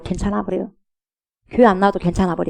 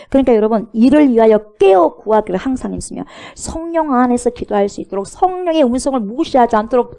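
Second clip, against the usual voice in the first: raised, driving sermon voice; forceful preaching; 3 semitones higher, 4 dB louder than usual. Real, not acted. Preacher urging congregation to pray in the Spirit, forceful preaching. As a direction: press each phrase on the congregation with force.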